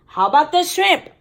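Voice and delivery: put-on child asking Dad at dinner; curious child. A narrator's reading. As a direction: ask brightly like a curious kid. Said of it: "I asked".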